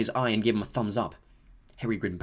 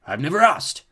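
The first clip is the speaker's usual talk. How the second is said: delicate; 5 semitones higher, 7 dB louder than usual. A narrator's reading. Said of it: "said nearly headless Nick delicately".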